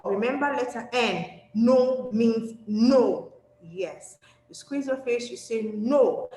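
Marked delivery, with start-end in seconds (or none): 1.5-3.3 very slow, louder, each word weighted; firm rule, stretched out loud; serious, emphatic. Shown as a demonstration. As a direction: spell it out slowly and firmly. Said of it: "I'm serious".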